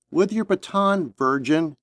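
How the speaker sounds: lightly voiced gruff uncle; a hint of a gruff older relative. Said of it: "voice sounded like some gruff uncle".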